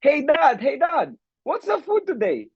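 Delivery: put-on kid asking dad. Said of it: "yung anak niya, kinausap siya".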